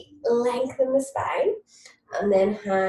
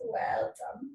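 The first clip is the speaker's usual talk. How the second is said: whispered; 8 semitones higher, 7 dB quieter than usual. Real, not acted. Soft praise during stretch.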